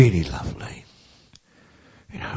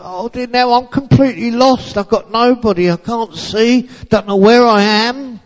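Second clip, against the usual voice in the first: lost and frightened; 14 semitones higher, 5 dB louder than usual. A narrator's reading. Lost blind girl despairs.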